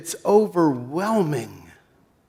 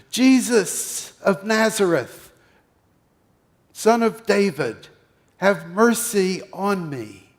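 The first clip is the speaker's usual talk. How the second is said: higher, pushed out over the crowd; shouting at the top of lungs; 5 semitones higher, 4 dB louder than usual. Acted. Beggar shouting to Jesus above the crowd, pleading. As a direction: plead loudly to be heard. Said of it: "shouting to the top of your lungs".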